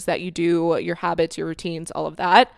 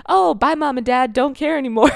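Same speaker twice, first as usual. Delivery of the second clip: mock flippant; 6 semitones higher, 6 dB louder than usual. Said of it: "just be like".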